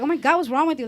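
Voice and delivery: lightly voiced annoyed daughter; daughter's exasperation. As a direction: imitate a fed-up daughter. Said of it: "my daughter be like".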